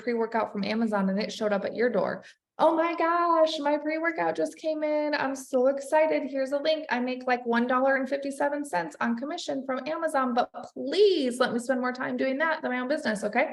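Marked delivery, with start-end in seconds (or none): 2.6-13.5 mock gushing influencer post. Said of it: "you take a picture and you say".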